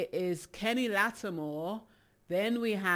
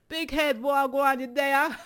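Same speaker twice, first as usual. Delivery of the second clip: high, loud hail to a friend; calling out loud; 7 semitones higher, 8 dB louder than usual. Real, not acted. DJ hollering out to a viewer on her live, high and loud. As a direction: holler it like you're spotting him in a crowd.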